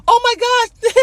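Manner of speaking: high-pitched mocking exclamation, then laughter; mock shocked ridicule. Mimicking critics of people learning a language, mocking. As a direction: imitate someone laughing at an accent.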